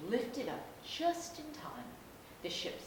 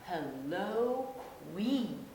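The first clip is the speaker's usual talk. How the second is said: put-on louder children's chorus greeting; shouting; 3 semitones higher, 6 dB louder, much slower than usual. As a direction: call out together, cheerfully. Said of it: "shouted the children".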